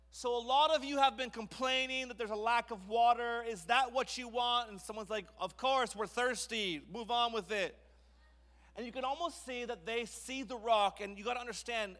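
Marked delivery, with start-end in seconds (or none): 0.1-4.7 addressing a crowd. Acted. Moses addressing the complaining crowd. 5.4-7.8 raised, higher crowd voice; mock-impatient shout; impatient heckler. Thirsty crowd member answers Moses.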